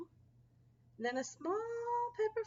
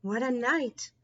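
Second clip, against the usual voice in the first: muttering mole; 7 dB louder than usual. Acted. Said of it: "Mole mutters".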